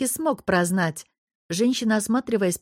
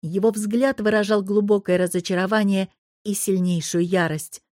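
usual speaking voice

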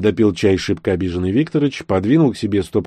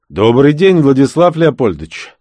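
bright, raised, polite greeting; friendly phone greeting; 7 semitones higher, 8 dB louder than usual. A narrator's reading. Kotov phoning the robbery victim, upbeat and polite. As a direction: greet him like an eager caller.

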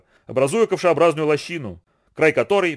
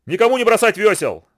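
loud, higher commanding shout; commanding order; 8 semitones higher, 5 dB louder than usual. A narrator's reading. Boatman orders the rowers not to drop their oars, loud commanding shout. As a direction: bark it out like a boatman in charge. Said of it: "властно приказал Фануви".

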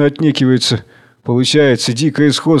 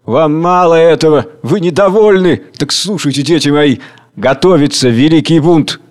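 loud, raised proclamation; Tsar Hunger proclaiming; 3 semitones higher, 4 dB louder than usual. Acted. Tsar Hunger rising to address his children, proclaiming loudly. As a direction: announce the revolt with relish. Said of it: "Царь Голод встаёт".

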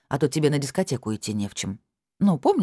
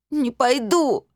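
put-on high tearful girl's voice, defiant; girl crying out her refusal to her stepmother; stubborn crying girl; 11 semitones higher, 4 dB louder, much slower than usual. A narrator's reading. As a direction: refuse like a sulky weeping teen.

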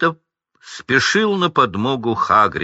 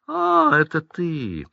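contempt; 8 semitones higher, slower than usual. Acted. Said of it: "как на дохлого таракана".

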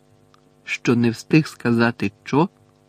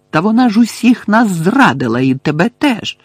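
raised, louder indignant outburst; high, emphatic indignation; angry accusation; 8 semitones higher, 5 dB louder than usual. A narrator's reading. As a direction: hit back with heated reproach. Harry angrily accuses the friend.

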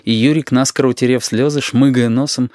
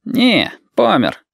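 passer-by's voice; 9 semitones higher, much slower than usual. Acted. Bystander answers about Yurik.

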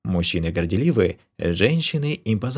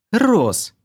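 hissed warning; 13 semitones higher, 5 dB louder than usual. Acted. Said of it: "прошипела Кира".

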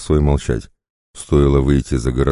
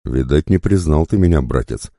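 ordinary delivery

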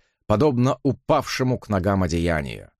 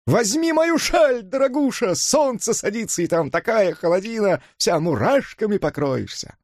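calling out; 11 semitones higher than usual. A narrator's reading. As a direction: sing it out high after her. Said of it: "крикнула вслед".

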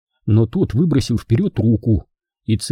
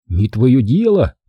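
trying to sound brave; slower than usual. Acted. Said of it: "говорить как можно храбрее".

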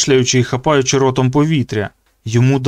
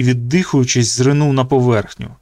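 ordinary delivery, nothing marked

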